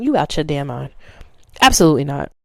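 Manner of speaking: dismissive, low and firm; flat refusal. Real, not acted. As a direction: shut it down flat. Rejecting ex who ghosted.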